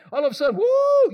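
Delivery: sudden high whoop of excitement; mock power rush. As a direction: let out a giddy high woo. Power goes to their head.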